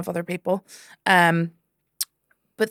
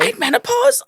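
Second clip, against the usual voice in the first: very high and loud voice; mimicked heckler; 5 dB louder than usual. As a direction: squeak it out earnestly. Heckler explains herself.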